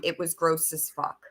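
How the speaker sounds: hushed disgusted whisper; whispered aside. Real, not acted. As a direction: drop to a whisper to share the gross part. Disgusted aside about Sage.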